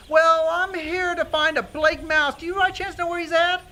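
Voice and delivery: squeaky little mouse inquiry; polite Mister Mouse. Acted.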